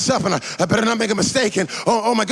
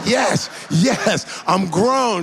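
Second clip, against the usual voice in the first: higher, eager yes; excited; 4 semitones higher, much slower than usual. Retold or imitated. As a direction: cheer like a proud teen. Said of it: "I'm thinking".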